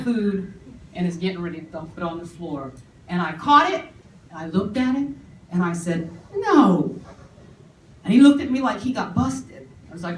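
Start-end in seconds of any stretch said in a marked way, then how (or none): 6.3-7.0 put-on a sharp, loud no to a toddler; firm no. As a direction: stop him cold with one word. Scolding the toddler firmly.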